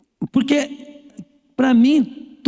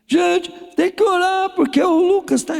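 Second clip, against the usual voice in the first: urgent plea; 9 semitones higher than usual. Retold or imitated. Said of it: "Aí ele falou assim".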